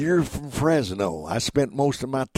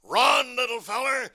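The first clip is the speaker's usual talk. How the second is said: higher-pitched cartoon bulldog call; Chopper; 10 semitones higher than usual. Bulldog tells the chased duck to flee, urgent cartoon call. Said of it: "Chopper tells him to run".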